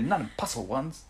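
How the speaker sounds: a touch of the character's delivery, amused; imitated retort. Host showing how he goes, lightly imitated retort. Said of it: "It's just the way he goes".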